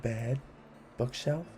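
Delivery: brisk rhythmic listing; poem reading. A narrator's reading. Host reading a list poem to kids, brisk and rhythmic. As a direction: tick off each item with relish.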